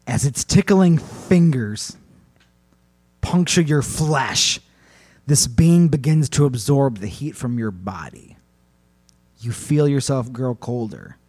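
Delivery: slow, deliberate ominous storytelling; horror narration. A narrator's reading. Host describes the creature draining heat, slow horror narration. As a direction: draw out each phrase for dread.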